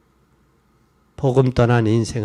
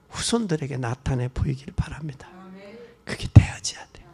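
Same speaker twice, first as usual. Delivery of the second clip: hushed plea; 3 semitones lower, 4 dB quieter than usual. Real, not acted.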